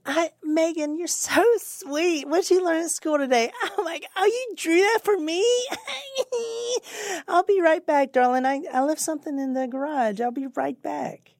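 hammed-up doting father at dinner; mock sweet dad. Killer playing doting dad to his daughter, sugary high voice.

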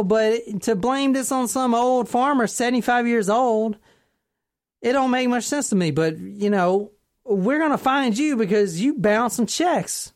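put-on hesitant cop with a country accent. Police confronting the tipster over bounced checks, put-on country accent. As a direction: turn suspicion on the caller in a country accent. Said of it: "do this in an accent".

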